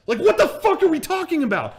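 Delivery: high, loud exclamation; exasperated, amused disbelief; incredulous. Real, not acted. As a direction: burst out at the absurdity of it. Incredulous aside at absurd chat.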